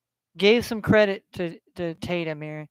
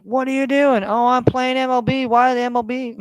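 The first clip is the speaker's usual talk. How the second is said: imagined onlooker; 5 semitones higher, 4 dB louder than usual. Retold or imitated. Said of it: "People be like".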